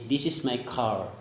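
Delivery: lightly attempted American accent; American-style CAR with the R sounded. Shown as a demonstration. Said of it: "but in American accent".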